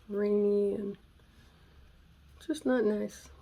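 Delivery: ordinary delivery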